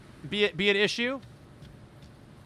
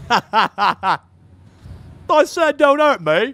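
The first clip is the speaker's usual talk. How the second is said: mimicked put-on accent, pitched up; Ethan's put-on accent; 4 semitones higher, 4 dB louder, slower than usual. Player mimicking a game character, put-on accent. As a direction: imitate a friend's jokey accent, louder. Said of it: "sound like Ethan when Ethan does his accent".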